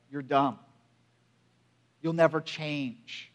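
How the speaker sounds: low, subdued recalled put-down; grave, hushed retelling of an insult; quiet hurtful quote. Retold or imitated. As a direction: quote the wounding words softly and slowly. Hurtful words recalled, voiced gravely.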